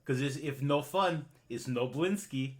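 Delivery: put-on lightly accented, eager toymaker; Blinsky the toymaker. Toymaker pitching his toys to customers, lightly accented and eager. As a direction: sell the fun in broken English. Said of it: "He's like".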